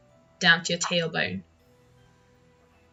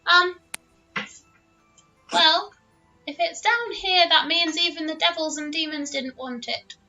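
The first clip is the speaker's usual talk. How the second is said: little dragon voice; 3 semitones higher than usual. Acted. Dragon explains, stammering.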